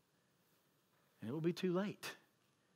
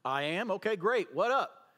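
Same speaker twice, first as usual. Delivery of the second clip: mock casual shrug; 2 semitones higher, 3 dB louder than usual. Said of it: "Sounds a little weird".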